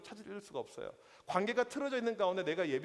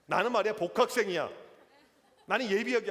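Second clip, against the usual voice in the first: mock tough-guy boast; 6 dB louder than usual. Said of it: "왠지 센 척을 하고 싶어요".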